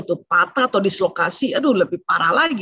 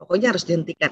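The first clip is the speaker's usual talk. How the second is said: put-on calm, firm parent correcting a child; 2 semitones lower than usual. Shown as a demonstration. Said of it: "katakan dengan tenang".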